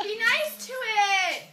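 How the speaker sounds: slow, soothing words to a dog; calm the dog down slowly; gentle coaxing. Real, not acted. Calming the dog.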